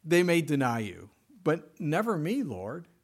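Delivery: a swaggering, loyal fisherman swearing he'll never fail; boastful Peter. Retold or imitated. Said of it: "he basically told the Lord".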